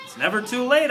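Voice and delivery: squeaky high encouragement; squeaked. Acted. Hamster encouraging Aldo about college, high squeak. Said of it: "I squeaked".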